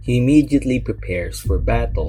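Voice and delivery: emphatic trailer-style narration; dramatic book blurb read. Acted. Reviewer introducing the book to viewers, dramatic blurb read. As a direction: read it like back-cover copy with suspense.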